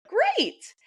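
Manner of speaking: a high, bright burst of delight; thrilled exclamation; delighted great. Retold or imitated. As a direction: squeal the word with joy. Self quoted, delighted reply.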